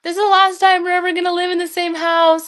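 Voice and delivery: lightly mocking a mother's farewell lament; imitating mom. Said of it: "my mom just kept being like".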